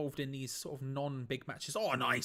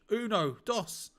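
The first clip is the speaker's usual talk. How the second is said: counting in Spanish; 4 semitones higher, 3 dB louder, slower than usual. Real, not acted. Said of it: "I keep counting Spanish".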